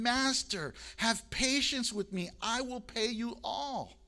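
pleading servant. Acted. Servant pleading with master in parable.

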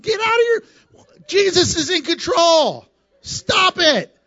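high, hammed-up brush-off; mock dismissive outburst. Preacher acting out shooing away worried people, high mock outburst. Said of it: "I'm like".

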